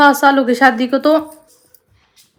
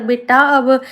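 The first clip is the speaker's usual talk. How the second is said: gently loving; slower than usual. Retold or imitated. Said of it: "अगर ना कोई प्यार से कहता".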